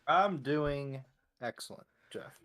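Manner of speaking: slow, unenthused reply; lacking enthusiasm. Real, not acted. Co-host answering the host's greeting, lacking enthusiasm. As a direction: drag it out, sounding a little disappointed. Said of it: "the enthusiasm was lacking at the beginning".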